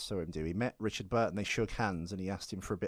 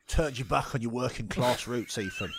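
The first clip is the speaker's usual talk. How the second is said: mock class reproach; 3 dB louder than usual. Teasing about abandoned working-class accent.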